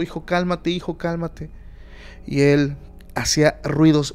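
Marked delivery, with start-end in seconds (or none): 0.0-1.5 a touch of soothing, raised pitch; imitating a mother hushing her son; mother gently calming her scared son, lightly voiced; calming a child. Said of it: "ella empieza a calmarlo".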